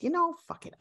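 high-pitched mock blurt; exasperated outburst. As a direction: throw it away with a high, fed-up burst. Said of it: "I said".

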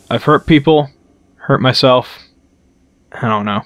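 bad Irish accent, lightly done; a hammy Irish brogue. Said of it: "my very bad Irish".

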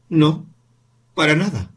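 un no amargo y algo más alto; amarga. Acted. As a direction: corta con amargura. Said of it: "respondió ella amargamente". (madre contestando amargamente al hijo)

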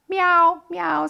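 high, happy meows; contented kitten meow; pleased kitten. A narrator's reading. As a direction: purr out a thank-you like a cat. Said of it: "says Kiki".

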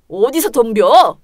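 slow threatening dressing-down; angry rebuke. Acted. Husband berating his wife for talking back, slow angry rebuke.

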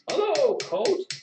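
high, loud hail across the room; called-out greeting. A narrator's reading. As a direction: call out a hello to the innkeeper. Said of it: "Old Cobb called".

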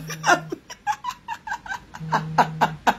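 a real laugh breaking high into a squeal. Real, not acted. Laughing at her own slide story, high squealing laugh. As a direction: burst out in a shrieking laugh.

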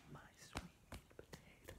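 breathy whisper of the song line; whispered call. Acted. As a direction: whisper it for the kids to answer.

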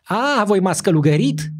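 high loud outraged cry; hoarse frightened cry. A narrator's reading. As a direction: cry out in shock and fury. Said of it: "cu glas răgușat și spărios".

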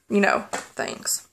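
barely voiced, trailing off into a near whisper; faint voice breaking. Real, not acted. Speaking of her mother's death, voice fading to a whisper. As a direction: let the words fade almost to nothing.

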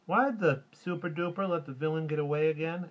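put-on high, loud little-kid voice; little boy's question. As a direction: pipe up as a puzzled small boy. Little boy asks leaving movie.

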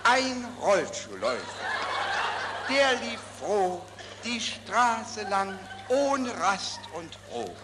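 poem broken by giggles; laughing recital. Real, not acted.

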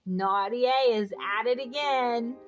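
usual speaking voice

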